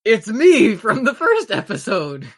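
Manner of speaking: loud booming strongman hail. Acted. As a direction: boom it out heroically. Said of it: "you hear a booming voice".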